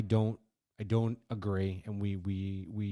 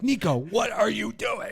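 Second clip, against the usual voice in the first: high, slow drawn-out call of his son's name; dad yelling for Nico; 12 semitones higher, 6 dB louder, slower than usual. Retold or imitated. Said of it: "I'm like".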